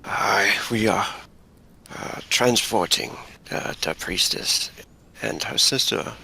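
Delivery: a hint of an old-world hunter; hunter character. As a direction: explain the errand in character, unhurried. Plays the hunter answering the ranger.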